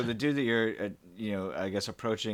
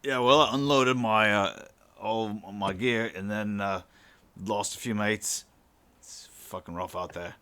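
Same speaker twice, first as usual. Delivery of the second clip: lightly voiced New Zealander; New Zealand accent; 3 dB louder than usual. Pilot telling of lost mates, New Zealand accent. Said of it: "start speaking with the, this accent".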